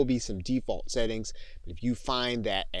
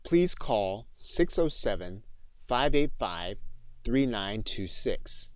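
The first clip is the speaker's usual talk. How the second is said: dictation voice. Shown as a demonstration. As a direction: spell it out chunk by chunk for the microphone. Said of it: "start the process by clicking on the mic".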